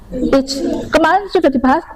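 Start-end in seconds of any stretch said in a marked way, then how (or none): 0.1-0.6 ICH said as "itch"; mispronounced ch. Shown as a demonstration. Teacher repeating the mistake to avoid, "itch" for "Ich". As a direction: say "Ich" with a "tch" ending. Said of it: "jangan ich".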